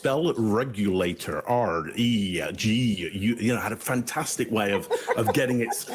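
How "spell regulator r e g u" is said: slow, lower robotic toy voice spelling each letter; Speak and Spell voice. Retold or imitated. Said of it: "it sounds like Texas Instruments Speak and Spell".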